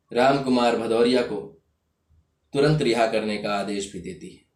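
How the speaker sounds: firm, measured courtroom pronouncement; formal verdict. Acted. Judge sentencing the inspector and his accomplices, formal verdict. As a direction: deliver a ruling in set phrases with pauses.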